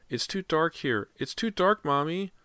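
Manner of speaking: put-on high little-boy whimpering plea; frightened child. A narrator's reading. Trapped boy tells Mommy about the dark, high and scared.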